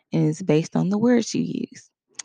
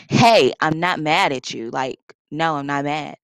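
loud insistent denial, voice raised; 3 semitones lower, 4 dB louder than usual. Shown as a demonstration. To her listener, insisting she is not mad, loud and edgy. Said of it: "'cause I raised my voice".

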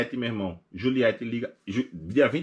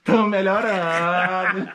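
mock halting speech; 7 semitones higher, 7 dB louder, much slower than usual. Mocking someone's broken speech.

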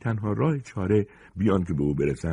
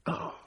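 low-volume moan; soft groan of pain; 9 dB quieter, slower than usual. Acted. Punched attacker falling, soft pained groan. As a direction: let out a quiet hurt groan. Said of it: "آن دیگری نالید".

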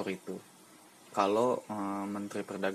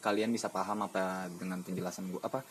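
talking around a cigarette while smoking; words loose around a lit cigarette. Real, not acted. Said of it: "gue sambil ngerokok".

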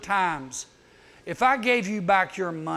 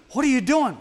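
shocked question; 6 semitones higher, 5 dB louder than usual. Acted. Shocked onlooker at dentist.

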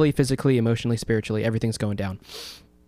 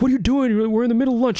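much higher, huffy scolding; mock annoyed manager; 11 semitones higher, 3 dB louder than usual. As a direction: play the irritated boss, whiny. Manager scolding during lunch rush.

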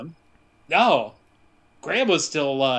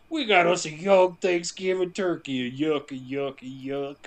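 lightly voiced creepy Papa. Papa freak voiced over baby.

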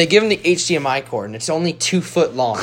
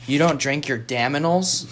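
slow, understated retold question; calm question; 5 dB quieter, slower than usual. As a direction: ask it slowly and very calmly. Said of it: "Jonathan just calmly turns around".

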